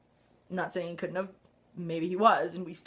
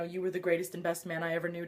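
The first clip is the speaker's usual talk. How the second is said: quoting John softly; 5 semitones lower, 9 dB quieter, faster than usual. Retold or imitated. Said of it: "John saying all that".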